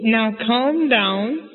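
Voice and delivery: slow, drawn-out soothing words; lightly acted father calming his wife; Papa calming Mama. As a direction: stretch it out to settle her down. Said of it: "What's he saying?".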